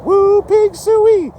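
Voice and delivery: high, slow, loud hog call; hog call cheer. Retold or imitated. Arkansas Razorback fans cheering, high drawn-out hog call. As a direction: stretch it out like calling the pigs. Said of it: "they got the, the Razorbacks".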